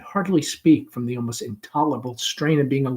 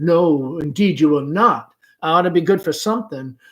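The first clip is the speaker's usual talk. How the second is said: higher, louder coquettish refusal; mother gaily declining help; Amanda protesting; 4 semitones higher, 6 dB louder than usual. Acted. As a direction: brush off the guest with mock modesty.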